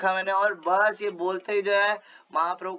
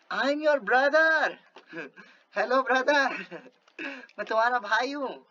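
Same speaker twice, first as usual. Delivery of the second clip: chuckling as he speaks, a little higher; a laughing brotherly greeting; smiling reply; 5 semitones higher, slower than usual. Acted. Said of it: "He smilingly replied". (हँसते हुए मुस्कुराकर जवाब)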